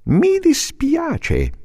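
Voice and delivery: molto alto e lentissimo; civetta. Acted. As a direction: allunga come una civetta. La civetta parla. (civetta lenta e acuta)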